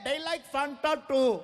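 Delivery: imitated drawn-out shout; helpful yelling. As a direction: call out to help, stretching the words. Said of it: "They're yelling".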